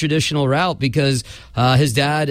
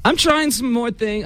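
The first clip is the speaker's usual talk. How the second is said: higher fake French accent, hammed-up; mock French accent; 9 semitones higher than usual. Mock French accent, defending the bit to John. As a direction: lay on a silly French accent. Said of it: "like, a French accent?".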